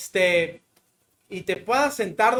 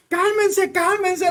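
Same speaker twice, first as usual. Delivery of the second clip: urging calm; 9 semitones higher, slower than usual. Retold or imitated. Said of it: "Y yo".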